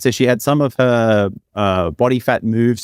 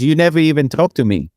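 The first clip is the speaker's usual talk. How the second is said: imitated Brazilian woman's accent, higher; 5 semitones higher than usual. Woman confronts him at the end of the night, imitated Brazilian accent. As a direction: lightly mimic a Brazilian accent, pitched up. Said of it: "with, with the accent".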